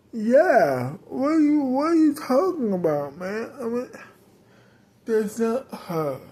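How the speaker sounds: high-pitched outraged what are you talking about; shocked, refuse to believe it about her friend; indignant disbelief. Acted. Indignant at accusation against Joey.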